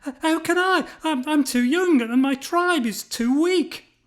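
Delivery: high, shaky-paced stammering protest; frightened stammer. A narrator's reading. Gideon fearfully protests to the angel. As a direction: stammer out his fear. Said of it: "his knees knocking together".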